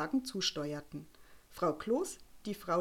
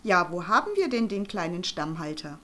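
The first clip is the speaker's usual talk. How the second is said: fluting; 6 dB louder than usual. Acted. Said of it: "flötete Frau Schnitzel".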